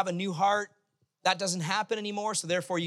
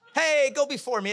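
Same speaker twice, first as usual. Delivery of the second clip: high, loud, forgiving holler; friendly call-out; 7 semitones higher, 5 dB louder than usual. Pretend. Forgiving driver to another driver, loud friendly call. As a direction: wave someone ahead with your voice.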